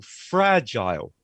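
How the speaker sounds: "fragile" very slowly, falling, ending like "aisle"; stressed FRA, "aisle" ending. Shown as a demonstration. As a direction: stretch "fragile" into FRADGE-aisle for learners. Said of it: "stress is on the first word and it's aisle".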